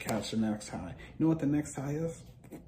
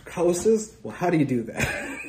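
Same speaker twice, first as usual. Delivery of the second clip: higher, louder puzzled question; baffled kid; 7 semitones higher, 8 dB louder than usual. Retold or imitated. Fourteen-year-old hearing about houses, baffled and loud. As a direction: ask it like a confused kid.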